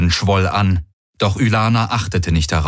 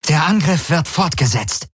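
breathless order; 8 semitones higher than usual. Acted. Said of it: "atemlos über die Komms".

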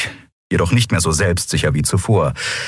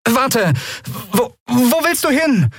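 high urgent call; calling after him; slower than usual. A narrator's reading. Endriel calling after Keru, urgent. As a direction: stop him before he leaves.

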